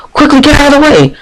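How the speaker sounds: high, loud warning yell; girl's shout. Acted. Girl on a scooter yelling warning at pedestrians, loud and high. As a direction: yell at them to clear the path. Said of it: "A girl's voice shouts out".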